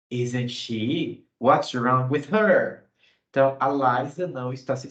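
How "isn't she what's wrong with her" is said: concerned interest. Shown as a demonstration. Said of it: "surpresa ou interesse".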